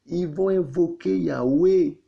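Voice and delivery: loud, high and slow, every word driven home; slow booming pulpit proclamation; emphatic proclaiming. Real, not acted. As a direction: thunder it out from the pulpit. Preacher proclaiming to the congregation.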